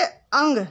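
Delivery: "अंग" said very slowly and drawn out; slow down and lean on "अंग"; nasal sound demo. Shown as a demonstration. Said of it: "अंग को क्या बोलते हैं हम?". ("अंग" धीरे, खींचकर)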